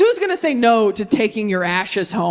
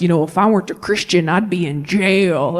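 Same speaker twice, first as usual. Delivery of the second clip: lightly voiced dad, lower, slowing at the end; a touch of a brooding father; 4 semitones lower than usual. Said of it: "My dad growing up was like".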